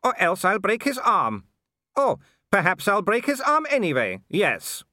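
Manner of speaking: high, grinning menace; sneering brute enjoying the threat; gleeful werewolf villain. A narrator's reading. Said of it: "grinning happily".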